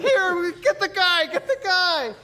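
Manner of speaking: high, loud urgent call; woman on the beach yelling for help; frantic shout. Retold or imitated. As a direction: yell for someone to grab him. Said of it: "was like".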